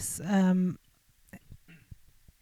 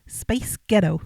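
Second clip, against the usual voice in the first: louder second go at an American accent; attempted American accent; 7 dB louder than usual. Shown as a demonstration. Co-host tries again for host, louder American accent. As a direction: punch out Space Ghetto in an American accent. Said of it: "Okay, that was better".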